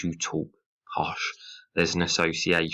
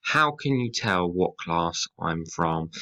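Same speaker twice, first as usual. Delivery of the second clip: HOW stressed, slow defiant question; rhetorical question read slowly. Shown as a demonstration. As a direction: lean on how, challenging. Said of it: "we start off with a rhetorical question".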